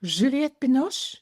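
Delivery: high, slow, teasing name; playful answer. Retold or imitated. Jaap answers from the floor, high and teasing. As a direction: draw the name out like a coy joke. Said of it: "And he said".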